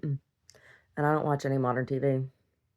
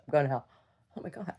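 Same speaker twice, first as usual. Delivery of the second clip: whisper; 2 semitones lower, 8 dB quieter, much faster than usual. Real, not acted. Whispered guilty aside.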